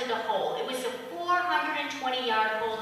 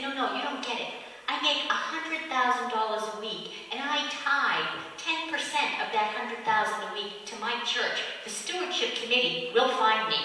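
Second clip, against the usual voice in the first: calm; 4 dB quieter than usual. Acted. Calm man explaining.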